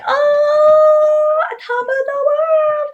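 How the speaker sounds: high, loud, slow mock triumph; sarcastic gloat. Kid mocking the bragging boy, high sarcastic gush. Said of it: "and I was like".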